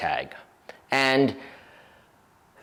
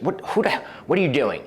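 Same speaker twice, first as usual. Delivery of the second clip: mild mock anger; 3 semitones higher than usual. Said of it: "she's super mad".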